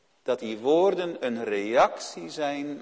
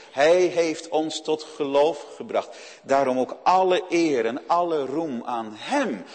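ordinary delivery

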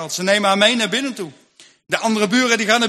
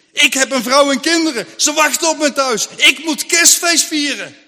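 desperate pleading; 5 semitones higher, 5 dB louder than usual. Acted. Lars pleading with himself.

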